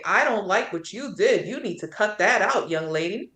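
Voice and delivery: acting out a disapproving busybody; mock scolding. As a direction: lecture her with emphatic swoops in pitch. Imagined stranger scolding her.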